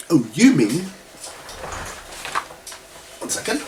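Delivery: ordinary talk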